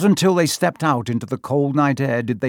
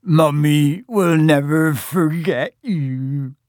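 very slow, drawn-out sobbing wail; Hagrid; 3 semitones higher, much slower than usual. A narrator's reading. Hagrid to departing Norbert, wailing tearfully. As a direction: blubber it like a bereft mother. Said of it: "Hagrid sobbed".

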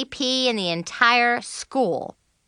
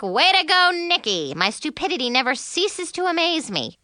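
sarcastic to herself; 6 semitones higher than usual. Retold or imitated. Nikki mocks herself for hiding by the sodas, sarcastic. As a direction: scold yourself with a sarcastic pat on the back. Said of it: "I was like".

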